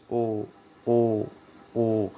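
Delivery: او held as a pure vowel three times; او repeated slowly as a sound drill; isolated o sound. Shown as a demonstration. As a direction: sound out او on its own. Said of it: "وہ او کی وجہ سے".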